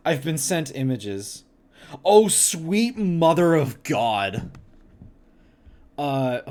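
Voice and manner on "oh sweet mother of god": horrified. Real, not acted. Reacting to horrible food pictures.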